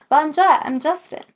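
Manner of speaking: put-on French accent cracking into a laugh; giggling mock French greeting; laughing through it. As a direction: laugh as you say bonjour again. Retake breaks into laughter.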